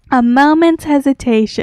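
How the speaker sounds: sudden loud shout. Rereading a line into the microphone, then apologizing: shouting. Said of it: "I'm so sorry for shouting".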